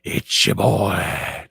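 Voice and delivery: slow drawn-out wrestler intro; slow showman "It's your boy"; Val Venus voice. Retold or imitated. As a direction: stretch it out like a wrestling entrance. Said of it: "I go kind of Val Venus".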